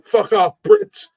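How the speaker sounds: very high-pitched, strained mock yell; mock patriotic jeer. Co-host jeering at the Brits as a joke, mock outraged. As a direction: squeal it out as a playful jeer. Play-acted jeer at the British.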